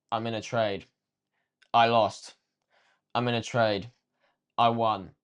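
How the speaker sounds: a touch of deadpan, bare statements; understated flat journal voice; robotic, emotionless. Retold or imitated. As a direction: read the entries out like a machine. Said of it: "It's robotic, emotionless".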